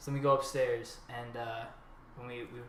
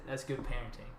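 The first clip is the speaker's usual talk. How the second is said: imitating an unflinching, matter-of-fact dealer; retold deadpan; 4 dB quieter than usual. Dealer explaining the blanket on kid's door, deadpan. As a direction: say it straight, without flinching. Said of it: "He didn't flinch when he said it".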